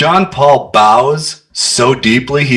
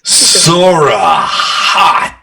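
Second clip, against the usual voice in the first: drawn-out pun; 3 semitones higher, much slower than usual. Acted. Player's punning flirt.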